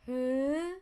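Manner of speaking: long "huh" gliding up high; longer "huh". Shown as a demonstration. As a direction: hold "huh" while lifting the pitch. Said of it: "Make it longer".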